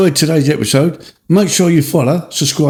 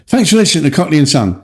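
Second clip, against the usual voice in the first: posh voice; faster than usual. Acted. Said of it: "Is that your posh voice?".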